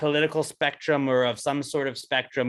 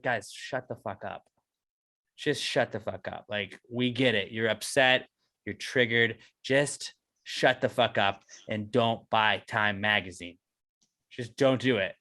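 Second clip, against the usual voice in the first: much softer, lower, dismissive mutter; muttered retort; 7 semitones lower, 6 dB quieter than usual. Retold or imitated. Telling Twitter complainers off, a soft low fed-up mutter. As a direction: mutter it under your breath, fed up. Voicing his own reply to outrage.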